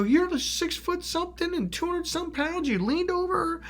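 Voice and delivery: high, sustained upset reproach; indignant scolding. Retold or imitated. Telling his big friend he loomed over her, indignant. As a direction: lecture him in a high, strained pitch.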